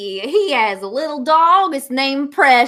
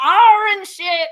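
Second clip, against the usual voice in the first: pirate voice; 5 semitones higher than usual. Acted. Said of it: "I'm real good at this voice".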